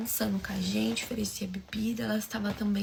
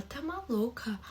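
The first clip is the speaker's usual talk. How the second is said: shocked disbelief; 6 dB quieter, slower than usual. Retold or imitated.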